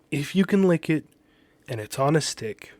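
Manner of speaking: fired-up pitch; passionate. Retold or imitated. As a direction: say it like a proud declaration. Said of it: "passionately talking".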